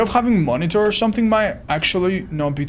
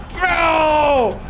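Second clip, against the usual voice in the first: high frustrated shout; 10 semitones higher than usual. Real, not acted. Streamer yelling at the missing survivor, high shout. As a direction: shout it out in disbelief.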